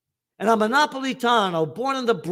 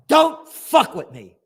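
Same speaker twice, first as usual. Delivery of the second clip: slow defiant threat; 7 semitones higher, 8 dB louder, slower than usual. Real, not acted.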